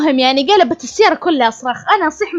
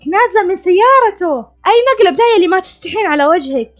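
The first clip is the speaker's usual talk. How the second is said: angry husband; 6 semitones higher, 3 dB louder than usual. Retold or imitated. Husband yells accusations at wife.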